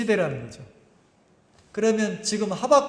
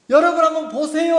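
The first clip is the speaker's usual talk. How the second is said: louder, higher call to the crowd; mock public summons, pitched up and loud; play-acted call; 7 semitones higher, 6 dB louder than usual. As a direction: call everyone's attention like a stage actor. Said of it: "하고 가리키면".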